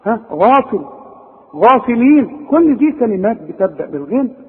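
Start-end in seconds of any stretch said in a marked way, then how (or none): 0.3-2.5 غافلين with a dark, backed "ghaa"; loud, heavy opening on غافل; correct heavy Ghayn. Shown as a demonstration. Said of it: "أنت بتقولها صحيحة".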